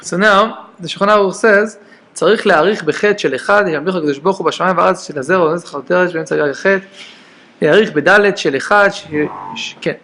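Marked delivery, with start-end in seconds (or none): 2.1-9.9 rattled off at speed; fast text reading. Acted. Teacher rattles off the Shulchan Aruch for students, fast. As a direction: read the Hebrew source quickly.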